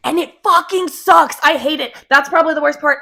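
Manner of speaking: loud, high venting; real frustration. Real, not acted. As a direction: vent it with full exasperation. Venting about people disagreeing with her.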